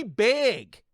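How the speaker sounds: "big" drawn out slowly in mimicry; mocking regional pronunciation. Mocking how the listeners say "big", slow, drawn-out imitation. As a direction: stretch "big" out to mock their accent. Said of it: "can't pronounce a certain English letter correctly".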